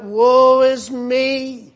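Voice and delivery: slow, loud anguished cry; cried out. Acted. Preacher voicing Isaiah's slow cry of woe. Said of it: "He cried out".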